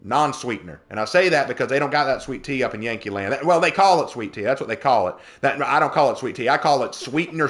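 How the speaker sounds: put-on down-home South Carolina accent; Southern accent. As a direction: rant lightly in folksy Southern dialect. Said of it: "do please only talk like that".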